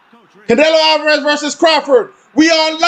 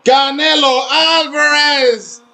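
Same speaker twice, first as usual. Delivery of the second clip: lucha libre announcer; much slower than usual. Retold or imitated. Echoing the ring announcer's call.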